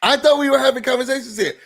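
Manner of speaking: exasperated repeat. Real, not acted. Host venting at Kenya, exasperated. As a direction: throw it out again, fed up. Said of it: "repeat, higher faster".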